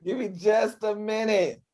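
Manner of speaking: high loud wait, hold on; urgent shout. Real, not acted. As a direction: rein everyone in, fading. Host stopping chaos.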